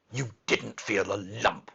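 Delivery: firm, fierce denial; fierce contradiction. A narrator's reading. Mary denying the boy's lump, fiercely. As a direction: flatly contradict him. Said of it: "contradicted Mary fiercely".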